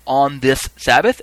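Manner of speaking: slow, somewhat loud question; crying out. Acted. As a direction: call it deliberately to the crowd. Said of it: "cry out".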